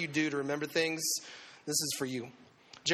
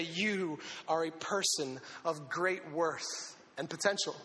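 tender; 3 dB quieter, slower than usual. Retold or imitated. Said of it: "he would say".

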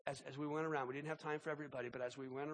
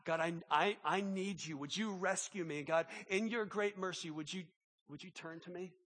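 struggling plea. Retold or imitated. Preacher voicing the struggling psalmist praying to God, earnest plea. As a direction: plead haltingly, pushing harder on the need. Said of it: "as he's just struggling".

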